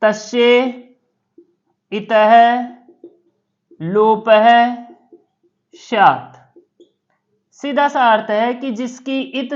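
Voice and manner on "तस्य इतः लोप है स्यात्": तस्य इतः लोप है स्यात् recited slowly, word by word with long pauses; reciting the vritti word by word; slow sutra recitation. Shown as a demonstration. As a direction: intone the commentary slowly like a chant. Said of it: "तस्य लोप है की वृत्ति".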